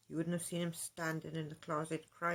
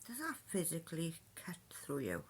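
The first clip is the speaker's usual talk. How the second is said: breathy mocking whisper; 6 dB quieter than usual. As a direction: hiss it out softly, teasing. Taunting aside to Josh.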